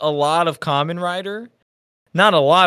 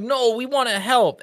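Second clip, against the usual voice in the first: put-on New Zealand accent, high and eager; eager teen in a thick Kiwi accent; 8 semitones higher than usual. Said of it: "in the most Kiwi accent ever".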